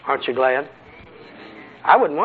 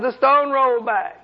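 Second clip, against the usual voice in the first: high, slow whining imp voice; a raised, pitiful demon voice; mock whiny demon; 9 semitones higher than usual. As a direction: play the beaten demon confessing. Preacher voices a frightened demon.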